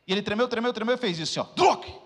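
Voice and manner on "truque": high, loud snapping noise; sharp pop sound. Retold or imitated. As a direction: imitate the joint popping back. Imitated pop of shoulder. (estalo imitado, alto e agudo)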